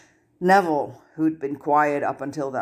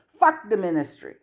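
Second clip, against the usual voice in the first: yelled; 6 semitones higher than usual. A narrator's reading. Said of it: "Ginny yelled".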